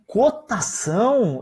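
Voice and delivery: slow, drawn-out disbelieving question; a slow stunned "Cotação?"; incredulous echo. Retold or imitated. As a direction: repeat the word back in disbelief. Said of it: "Eu falei".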